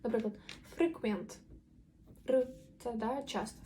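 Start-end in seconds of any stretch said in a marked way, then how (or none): 0.8-1.4 ФРЕКВЕНТ with a plain tongue-tip R; Ukrainian R. Shown as a demonstration. Teacher gives example, ФРЕКВЕНТ with Ukrainian R. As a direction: tap the R in ФРЕКВЕНТ. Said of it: "нашу українську р".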